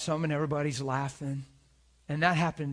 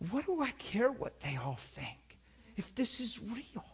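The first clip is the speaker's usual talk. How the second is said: higher, slow earnest coworker; 8 semitones higher, slower than usual. Retold or imitated. Retelling the coworker's conversion story. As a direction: lift it up with wonder. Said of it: "He said".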